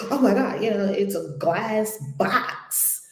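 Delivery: mildly panicked retelling; mock panic. Speaker retells a woman trapped in a glass box, mild panic. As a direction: imitate someone starting to panic. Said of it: "she was panicking, panicking, like".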